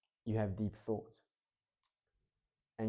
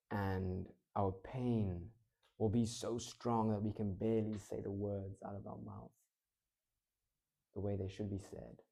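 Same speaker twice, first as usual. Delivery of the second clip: low, pained; 3 semitones lower, 4 dB quieter than usual. Shown as a demonstration. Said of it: "we're gonna have a deeper voice".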